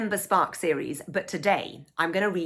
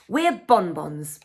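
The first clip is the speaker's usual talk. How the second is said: proud slow declaration; proudly; 4 dB louder, much slower than usual. Acted. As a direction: say it with your chin up, proud of the part. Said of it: "I say proudly".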